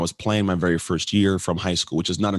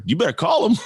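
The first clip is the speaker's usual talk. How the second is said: imitating wife; 11 semitones higher, 4 dB louder than usual. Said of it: "she's, she's like".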